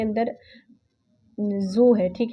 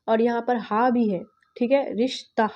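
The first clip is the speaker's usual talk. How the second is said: whisper. Real, not acted. Aside while teaching.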